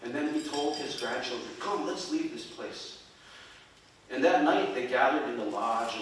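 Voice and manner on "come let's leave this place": softer, slower and higher; hushed grandfather, unhurried; quiet urging. A narrator's reading. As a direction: gently usher the children away. Grandfather quietly leads children away.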